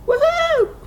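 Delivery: high, loud whoop; celebratory cheer. Real, not acted. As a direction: let out a triumphant high cheer. Cheers over a finished project.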